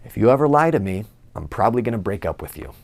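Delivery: quick, half-teasing but firm warning; warning his girlfriend, playful yet serious; half-joking warning. Retold or imitated. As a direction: joke it, but mean it. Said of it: "kind of jokingly but serious".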